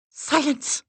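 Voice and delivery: sharp commanding order; low command. A narrator's reading. Assistant silences the room with a command. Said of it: "The assistant's voice was low, the command unmistakable".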